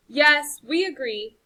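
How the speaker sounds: growled. Acted. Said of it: "growled mighty Val the miller".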